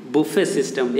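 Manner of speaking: बुफे as "boo-FAY", silent t; correct buffet system. Shown as a demonstration. Teacher models for pupils to repeat, बुफे as "boo-FAY". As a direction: end बुफे on an open "ay". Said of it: "उसे बुफे system कहते हैं".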